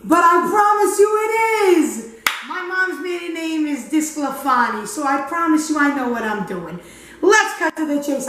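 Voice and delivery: lightly hammed-up Italian accent; put-on Italian accent. Host introducing herself to viewers, mock Italian accent. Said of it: "I don't think I can do this accent".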